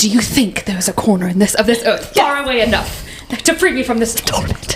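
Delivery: put-on whispering voice. The speaker retells what a man whispered to the giggling group: imitating his whisper. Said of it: "he's like whispering".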